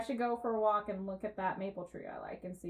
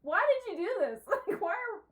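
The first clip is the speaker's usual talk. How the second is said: laughing exasperation; 8 semitones higher than usual. Retold or imitated. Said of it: "I was like".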